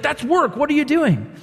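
a touch of a scandalized religious leader; indignant Pharisee. Retold or imitated.

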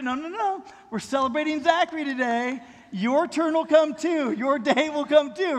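put-on a kid insisting on the rule; boy reminding brother. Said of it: "and say".

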